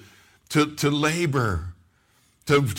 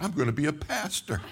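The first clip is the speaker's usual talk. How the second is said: quiet awe; 6 dB quieter than usual. Retold or imitated. Stunned quiet reply after the call.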